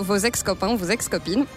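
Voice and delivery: normal talking voice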